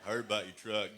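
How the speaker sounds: a hint of a good old boy; Texan guy. Two Texan guys talking about a truck, lightly drawled. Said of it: "I heard these two guys talking".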